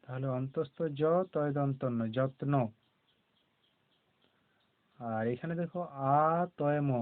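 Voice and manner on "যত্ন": যত্ন with ত and ন both audible; both ত and ন sounded. Shown as a demonstration. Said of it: "তয়ের উচ্চারণ হবে".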